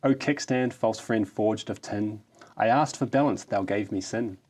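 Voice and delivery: grand, hammed-up ode reading; mock-solemn ode to a kickstand; mock-heroic poem recital. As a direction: declaim it like solemn verse.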